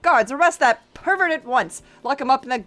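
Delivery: a touch of hammed-up fury; mock outraged groom. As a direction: order the guards in indignation.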